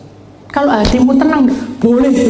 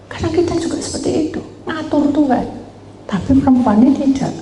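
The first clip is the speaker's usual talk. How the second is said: preaching; 8 semitones higher, faster than usual. Acted. Preacher raises voice, fast.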